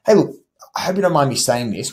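relaxed and non-aggressive opener; gentle softener. Shown as a demonstration. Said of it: "that's called a softener".

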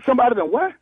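urgent stage whisper. Pretend. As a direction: push the whisper hard but stay hushed. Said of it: "why the hell you whispering".

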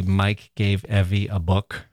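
Evie lifted and stretched, rest steady; stress on Evie. Shown as a demonstration. Podcast host demos stress on Evie. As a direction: lean on Evie, slow. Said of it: "emphasizing a single word".

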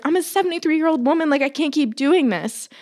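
high, fast, mildly pleading quote; retold distress. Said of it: "Oh my God, I'm gonna cry".

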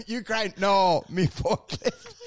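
mock Ukrainian-accented broken English; slow, halting fake foreign leader; Zelensky. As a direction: put on a clumsy Ukrainian accent. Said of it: "Zelensky, would go".

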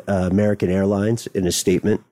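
usual speaking voice

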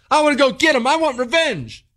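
imitating an angry hothead. Host voicing a violent listener, mock hothead. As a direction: play the guy itching for a fight. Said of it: "let's say you're some violent person".

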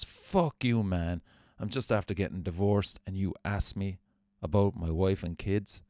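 imitating a furious rocker telling him off; angry outburst. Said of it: "he goes".

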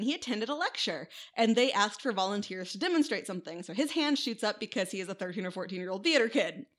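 ordinary talk

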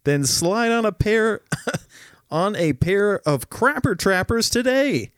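cheesy commercial announcer; ad read. Acted. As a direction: sell it like a late-night ad. Fake ad copy, laughing.

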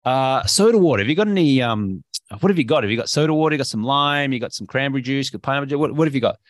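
upbeat, keen order at the bar; breezy, enthusiastic role-play of ordering; confident, smiling acceptance. Acted. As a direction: say it with a confident smile. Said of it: "you smile and you confidently say".

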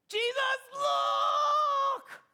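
high, loud startled cry to Jesus; excited shout. Acted. Disciple Peter shouting to Jesus about the fig tree, loud startled cry. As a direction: call out to Jesus in amazement.

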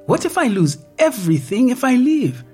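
high, rising panic, fast at the end; anxious pleading. Acted. Woman to virtual doctor about losing everything, high anxious pleading. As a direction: fire the fears at him one after another.

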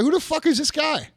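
incredulous, annoyed demand; indignant retelling. Retold or imitated. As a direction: retell it in affronted disbelief. Retells indignant question to brother.

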